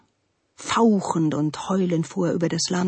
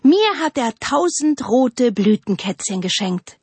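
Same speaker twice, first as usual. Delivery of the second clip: higher, mildly proud call; 5 semitones higher, 4 dB louder than usual. A narrator's reading. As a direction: lightly call out as the spruce. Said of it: "rief die Fichte". (hell und stolz rufend)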